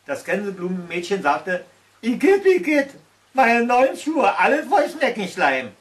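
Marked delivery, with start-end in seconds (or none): 2.0-5.7 much higher, loud whiny complaint; disgusted girl. A narrator's reading. Daisy girl lamenting her slimy new shoes, disgusted. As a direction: wail over ruined shoes.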